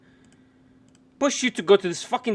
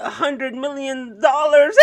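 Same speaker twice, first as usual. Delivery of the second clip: punchline through laughter; 7 semitones higher, 4 dB louder than usual. Pretend. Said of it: "write jokes about Nancy Pelosi".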